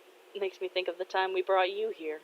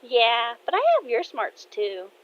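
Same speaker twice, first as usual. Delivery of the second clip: amused affection; 5 semitones higher than usual. Acted. Daughter telling dad she has his smarts, amused. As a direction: say it just after a giggle. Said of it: "Kaede laughs and says".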